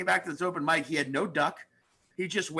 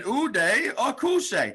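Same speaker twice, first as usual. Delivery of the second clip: slow comic impression; 5 semitones higher, 3 dB louder, much slower than usual. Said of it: "I said".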